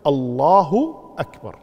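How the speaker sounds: الله at normal length, then أكبر starting on a distinct hamza; clear hamza on أكبر. Shown as a demonstration. Teacher showing students the prayer takbir, clear hamza on أكبر. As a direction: say الله أكبر measured, with a crisp glottal onset on أكبر. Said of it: "ويوضح همزة أكبر".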